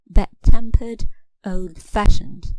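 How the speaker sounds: TEMPERED in bad-tempered and FASHIONED in old-fashioned stronger; stress on second part. Shown as a demonstration. Teacher showing compound adjectives, bad-tempered and old-fashioned stressed on second part. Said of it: "the stress is on the second part".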